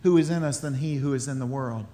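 quiet conviction. Retold or imitated. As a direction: settle the voice into faith. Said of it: "we start to say things like".

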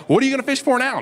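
put-on high kid voice; lightly voiced curious little boy; kid's question. Little boy pestering the fisherman, lightly voiced kid. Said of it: "this guy's like".

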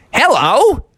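put-on high, lilting old-man greeting; kindly old man. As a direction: greet them in a quaint old voice. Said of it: "kindly old man".

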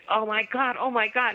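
mock-shocked exclamation, lightly acted. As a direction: imitate a shocked dog owner. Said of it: "she's shocked too".

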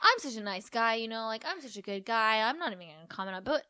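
high, loud overly sweet; smarmy nice-guy act; fake nice guy. The speaker voiced fake-nice.

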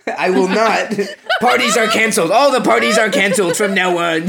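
a scandalized professor losing it, half laughing; mock outrage. Slughorn scolding Harry in mock outrage, laughing.

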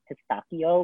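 pistachio said the Italian way, with a k sound; Italian pronunciation. Shown as a demonstration. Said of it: "the true Italian way to pronounce it".

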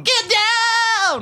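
high, straining yell; shouting cop. Retold or imitated. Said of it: "Oh my God, your voice".

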